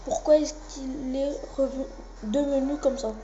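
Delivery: lightly voiced anime fighters trading threats; amateur fandub of tense anime dialogue; dubbing the cutscene characters. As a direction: read the cutscene like a hammed-up anime dub.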